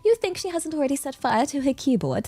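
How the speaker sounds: put-on crisp RP British accent, newsreader style; British received pronunciation. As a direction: read it in polished RP British. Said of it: "our British received pronunciation voice".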